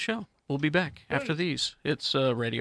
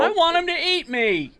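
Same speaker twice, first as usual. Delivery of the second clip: very high, loud silly plea; hammed-up high-pitched begging; mock eagerness; 13 semitones higher, 5 dB louder than usual. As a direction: pipe up in a high comic voice. Jokey interjection about man-eating aliens.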